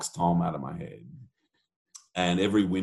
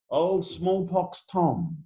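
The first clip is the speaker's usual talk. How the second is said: spooky storyteller; 8 semitones higher, much slower than usual. Acted. Spooky ghost story build-up.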